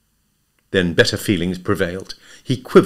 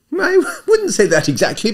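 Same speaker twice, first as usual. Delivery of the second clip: awkward laugh; 5 dB louder than usual. A narrator's reading.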